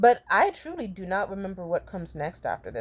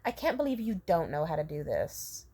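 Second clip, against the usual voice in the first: exasperated manager; 3 semitones lower, 5 dB quieter than usual. Retold or imitated. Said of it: "the manager went".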